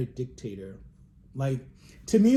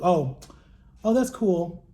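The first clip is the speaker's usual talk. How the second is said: unimpressed mom; 3 semitones higher, 5 dB louder, slower than usual. Retold or imitated. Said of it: "she's like".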